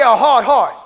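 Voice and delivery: shouted call for the church to echo; loud call to repeat. Shown as a demonstration. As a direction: belt it out so they answer back. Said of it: "Somebody say".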